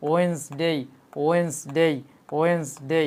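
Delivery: ওয়েডনেসডে in two syllables, "wens-dey"; correct Wednesday. Shown as a demonstration. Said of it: "আমি আবার repeat করে দেখেন". (ওয়েডনেসডে শুদ্ধ উচ্চারণে, "ওয়েন্সডেই")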